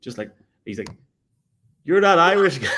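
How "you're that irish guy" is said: high, loud excited fan voice, imitated; mock fan recognition. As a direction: blurt it like a starstruck fan spotting him. Fan recognises him at escalator.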